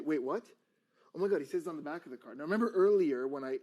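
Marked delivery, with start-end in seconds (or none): 0.0-2.4 quick, louder double take; acted surprise. Shown as a demonstration. Magician discovers the card's message, mildly startled.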